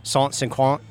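terrible French, said haltingly; halting schoolboy French accent; halting phrasebook tourist. Shown as a demonstration. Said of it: "to hear my, uh, terrible, uh, French".

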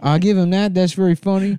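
put-on Taiwanese accent. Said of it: "traditional Taiwanese accent".

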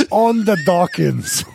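slow, amused repeat through laughter; drawn-out quote broken by real laughter; laughing. Real, not acted. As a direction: savor the phrase while cracking up. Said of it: "Še najboljši line".

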